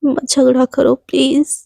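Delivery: slow, whispered tearful begging; tearful plea. Acted. Ananya on her knees begs Shivani, tearful whisper. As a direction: plead through tears, dropping to a whisper. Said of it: "उसकी आंखों से ना ठप ठप आंसू".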